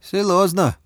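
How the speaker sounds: put-on doubtful, Chinese accent. A narrator's reading. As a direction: Bao doubts in accented Russian. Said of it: "засомневался Бао".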